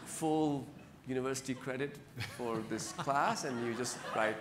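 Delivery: as if pass-fail credit for writing stories is too good to be true; incredulous retelling. Retold or imitated. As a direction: replay your own stunned question with a laugh. Retelling his amazed question.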